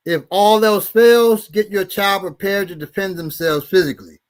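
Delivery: measured read-aloud of a handout; reading advice aloud. Acted. Reading bullying advice to listeners, measured and formal.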